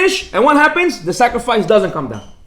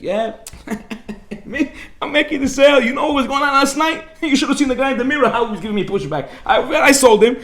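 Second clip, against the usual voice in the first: laughing boast; 5 semitones higher than usual. Retold or imitated. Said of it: "He's like".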